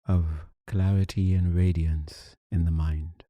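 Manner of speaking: ordinary talk, nothing marked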